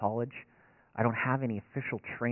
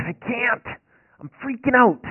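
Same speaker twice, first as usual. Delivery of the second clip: much higher and louder, mock panic; 13 semitones higher, 10 dB louder, slower than usual. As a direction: play your own retold freak-out. Panicked self retold.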